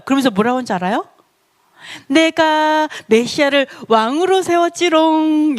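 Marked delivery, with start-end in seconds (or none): 2.1-5.6 drawn-out, higher sing-song gloating; playful taunting. Acted. Preacher voicing God to those who scorned the Messiah, playful taunting. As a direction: tease like a child who has won. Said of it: "막 웃으면서 비웃으셨어요".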